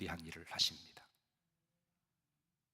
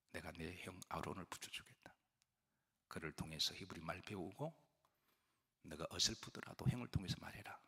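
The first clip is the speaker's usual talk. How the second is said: God reassuring; 4 dB quieter than usual. Retold or imitated. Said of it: "근데 하나님이".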